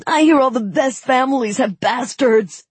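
loud, high chortle; chortling. A narrator's reading. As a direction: chortle the gossip. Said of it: "chortled his friend".

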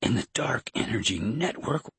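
weak, high-pitched pleading. A narrator's reading. Weakened man asking Jason why, high weak voice. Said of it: "his voice weak".

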